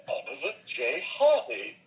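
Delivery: light comic film-duo impression; old comedy double-act voice; Stan Laurel. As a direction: do a simple, meek comic sidekick. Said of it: "I did it as Stan Laurel".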